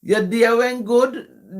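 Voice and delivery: patois question as a demonstration; Jamaican patois. Shown as a demonstration. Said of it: "tell you in patois".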